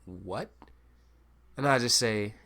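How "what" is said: whispered, much softer, slow; a stunned crowd muttering under their breath; hushed crowd. Retold or imitated. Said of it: "Crowd gets really, really fucking low".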